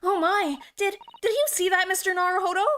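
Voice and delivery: jolted by the moving case; acted alarm. Trunk moves, acted alarm.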